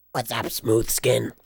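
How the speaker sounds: slow, rasping ghoul growl. Shown as a demonstration. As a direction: drag it out like a decayed ghoul merchant. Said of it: "the Fallout Three ghoul voice".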